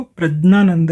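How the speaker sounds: प्रज्ञानंद with j plus n, never gy; pure Sanskrit pronunciation. Shown as a demonstration. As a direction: say प्रज्ञानंद as "praj-naanand". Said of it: "विशुद्ध नाम है".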